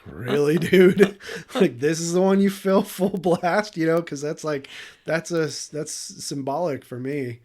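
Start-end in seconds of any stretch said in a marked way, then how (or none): 0.1-2.8 high, loud incredulous squawk; mock disbelief. Handed an overflowing cup, he squeals in mock disbelief. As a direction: pitch it up in mock outrage.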